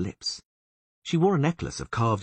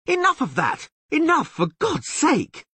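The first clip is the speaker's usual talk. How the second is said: much higher, louder fretful yell; 6 dB louder than usual. A narrator's reading. Dandelion yelling for the kicking to stop, high and loud. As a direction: yell in panic. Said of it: "Dandelion yelled fretfully".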